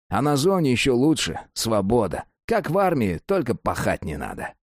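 lightly voiced streetwise prison con; a hint of a jailhouse old-timer; convict voice. Cellmate convict talking.

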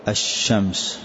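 الشمس said ashshams with a doubled sh; assimilated lam. Shown as a demonstration. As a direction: merge the lam of الشمس into the shin. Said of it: "أدغم هذه اللام لا تنطقها".

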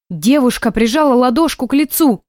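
ordinary delivery, nothing marked

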